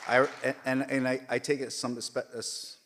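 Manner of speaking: real choked-up falter. Real, not acted. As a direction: voice cracking with pride, struggling to get the words out. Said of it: "I'm getting a little choked up".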